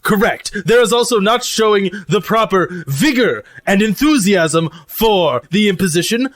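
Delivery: deliberate, lightly pompous character voice; formal robot cook. Acted. Lucy tells crew the crimes of dishonor, mannered formal voice. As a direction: begin a solemn catalogue, weighing each item.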